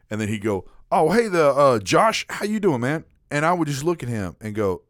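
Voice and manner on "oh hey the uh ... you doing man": higher, louder, spacey greeting; dopey coworker voice. Retold or imitated. Imitating the spaced-out coworker greeting his colleague. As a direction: play the clueless coworker fumbling a name. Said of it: "voice for Robert sounded s-, very similar to Morgan Freeman".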